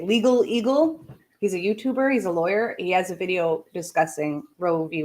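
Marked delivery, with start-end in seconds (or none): 0.0-1.1 playful, higher-pitched relish of the rhyme; lightly playful, lifting at the end; fun to say. Shown as a demonstration. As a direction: savour the silly name. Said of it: "it's fun to say".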